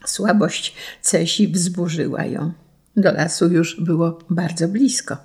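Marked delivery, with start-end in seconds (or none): none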